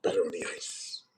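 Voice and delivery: breathy savoring whisper. Real, not acted. Whispering to the stream about his iced beer. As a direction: hush it like a secret.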